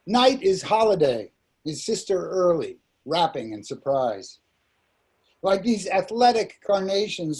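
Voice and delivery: measured recital, line by line; poetry reading. Acted. Poet reads Night to listeners, measured poem recital. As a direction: lift the openings of phrases and let them fall.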